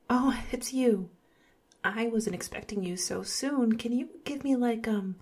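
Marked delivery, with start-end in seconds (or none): 0.1-1.1 whispering. Acted. Surprised to see visitor.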